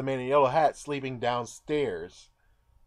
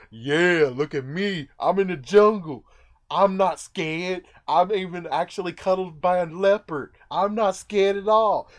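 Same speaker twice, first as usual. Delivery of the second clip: mock bravado; 4 semitones higher, 4 dB louder than usual. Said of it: "So I could say".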